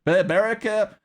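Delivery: "But" punched high and loud before "America"; stress on but. Real, not acted. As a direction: hit "But" hard to set America apart. Contrasts America with South Africa.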